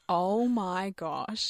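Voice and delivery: slow, drawn-out amazed oh my gosh; stunned gasp. Retold or imitated. Worker recognising a celebrity, slow amazed. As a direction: let it dawn on you slowly. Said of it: "double take and look back at him and go".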